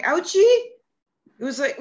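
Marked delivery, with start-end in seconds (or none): 0.0-0.6 put-on high, loud babyish whimper; mock ouchie. Mother to the doctor about her hand, mock baby whimper. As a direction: play it like a hurt child. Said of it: "I'm like".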